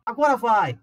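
loud hopeful 'Agora vai!'; mock eager cry. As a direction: call it out like a sure bet. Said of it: "eu falava". (grito animado de quem acha que vai subir)

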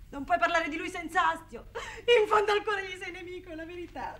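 a hint of a sob in a bitter reproach. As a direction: hurl the accusation at him, close to tears. Heated reproach in a drama.

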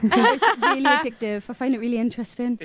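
American accent. Shown as a demonstration. Showing off American accents on request.

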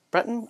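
Breton as a questioning BRET-un; unsure pronunciation. Shown as a demonstration. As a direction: softly query Breton, English-style with rising pitch. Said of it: "I'm terrible at pronouncing names".

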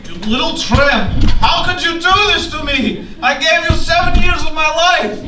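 hurt, angry outburst rising to a shout; a jealous boyfriend shouting at his girlfriend. Acted. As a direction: yell at her, wounded and betrayed. Johnny hears Lisa's taped betrayal.

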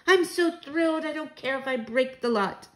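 high-pitched elated exclamation; thrilled outburst. A narrator's reading. Grandmother too thrilled to mind the vases, exclaiming. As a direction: gush with high, carefree delight. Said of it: "she shouted".

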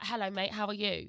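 casual London accent demonstration. Shown as a demonstration. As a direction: greet a mate in London accent. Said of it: "it's like a London thing".

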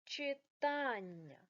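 Читання drawn out very slowly; slow sounding out. Shown as a demonstration. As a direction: spell out Читання slowly for the class. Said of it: "виходить читання".

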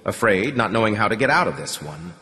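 ordinary delivery, nothing marked

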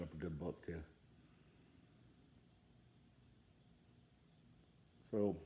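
words around pipe stem; pipe in mouth. Real, not acted. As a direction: lips closed on pipe. Seen 0: pipe at lips at 0.1, then lowered; rest spoken freely.

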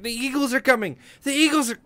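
high, loud film-quote call; mock heralding cry. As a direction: call out the news like a hammed-up herald. Quotes a film line as joke.

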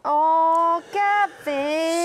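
loud, high protest at losing; exasperated cry. Real, not acted. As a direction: cry out his name in dismay. Loses the race to Gavin.

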